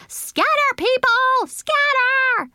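very high, loud alarmed shout; panicked yell. A narrator's reading. Child yelling to people from behind a bush, high panicked shout. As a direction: yell a warning at full pitch. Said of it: "I yelled".

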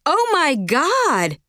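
loud, slow, hammed-up gasp; stadium-loud exclaim. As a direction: blurt it out like in a stadium. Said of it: "exclaimed at a volume more appropriate for a stadium".

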